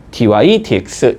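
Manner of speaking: 디와이, 디엑스 read straight through as dy, dx; correct derivative reading. Shown as a demonstration. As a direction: repeat 디와이, 디엑스 top term first, as letter names. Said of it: "이렇게 읽어준다".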